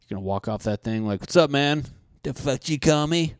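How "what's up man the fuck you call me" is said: mock offended. Future people offended.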